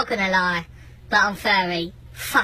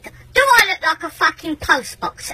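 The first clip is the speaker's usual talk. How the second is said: slow, higher rhetorical question; indignant challenge; 5 semitones higher than usual. Retold or imitated. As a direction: spell out the question in exasperation. Angry rhetorical question to neighbour.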